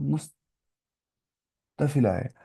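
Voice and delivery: मुस्तफिला stretched very slowly, syllable by syllable; drawn-out term. Shown as a demonstration. Teacher slowly sounding out the term मुस्तफिला. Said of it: "क्या कहते हैं?".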